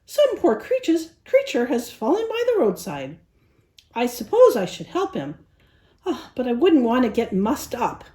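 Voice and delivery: lightly voiced haughty rich lady; prissy poodle. Rich poodle talking herself out of helping, haughty.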